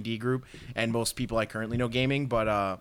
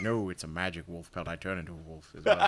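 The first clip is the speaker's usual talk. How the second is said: elf quote; 6 semitones lower than usual. Retold or imitated. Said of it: "He's like".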